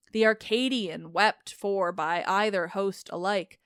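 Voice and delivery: steady, even reading of an epic; measured audiobook narration of ancient verse; story narration. A narrator's reading. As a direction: read it like a translated classic. Reads epic poem aloud.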